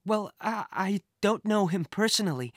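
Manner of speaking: a hint of uncertainty; lightly voiced hesitant Kate. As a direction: explain haltingly. Kate explaining hesitantly to Jack.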